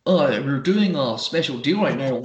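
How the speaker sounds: lightly put-on non-Dunfermline sales accent; mock salesman's accent, lilting up at the end; put-on shop clerk accent. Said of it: "That is not a Dunfermline game accent".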